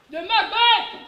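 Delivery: high, loud exasperated reply; emphatic answer. Real, not acted. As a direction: snap the answer out.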